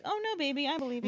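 soft, imitated reassurance; hushed retold comforting. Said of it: "like, reassuring her".

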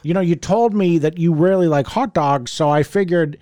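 a hint of an old man, voice lifted. Host retelling the hot dog prank call, lightly voiced old man. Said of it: "this is him as the old man".

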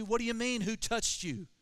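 incredulous disciples. Acted.

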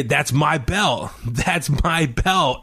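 quoting Adam Cole. Retold or imitated. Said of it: "you hear Adam Cole say".

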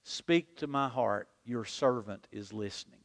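a hint of an intimate whispered prayer; quiet prayer. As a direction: pray it gently and humbly. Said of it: "by opening my heart to God and saying".

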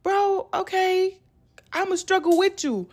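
slow, humble sympathy. Acted. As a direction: gently offer solidarity, taking your time. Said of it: "But the humble me be like".

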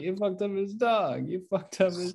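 can't believe what he just heard, pitch shooting up; incredulous outburst. Retold or imitated. Leguizamo's character appalled at kid.

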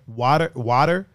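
"Water, water" with no R after the A; standard pronunciation of water. Shown as a demonstration. Repeating the others' word water, standard pronunciation. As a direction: say "water" with an open first vowel, no R there. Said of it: "how you're supposed to say it".

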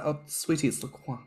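a lightly fancy sweetie voice; a touch of fancy; fancy French. Retold or imitated. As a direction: play it mock posh and French. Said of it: "I do feel fancy when I say".

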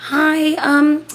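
tentative phone greeting with drawn-out words; imitated school nurse. School nurse calling mom about sick child, hesitant imitation. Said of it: "the nurse".

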